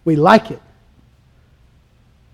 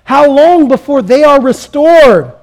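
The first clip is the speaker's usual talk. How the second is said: tearful lament; 4 semitones higher than usual. Acted. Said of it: "With tears in their eyes".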